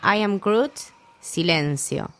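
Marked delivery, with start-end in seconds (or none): 0.0-0.7 raised, pleading no no, a touch of despair; desperate plea. Retold or imitated. Rocket begging as Groot fades, desperate. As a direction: beg like Rocket losing his friend. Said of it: "Rocket desesperado diciendo".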